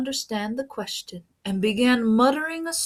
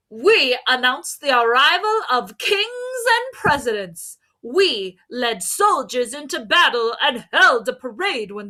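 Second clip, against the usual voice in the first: loud, high, arrogant proclaiming; a brassy, swaggering boast; boisterous trumpets; 5 semitones higher, 5 dB louder than usual. Acted. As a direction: blare it like proud trumpets. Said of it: "in a boisterous manner".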